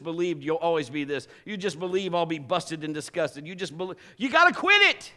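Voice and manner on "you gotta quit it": sudden high, loud preaching shout; shouted exhortation. Real, not acted. Preacher shouting to the congregation to quit it. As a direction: belt it out to the crowd.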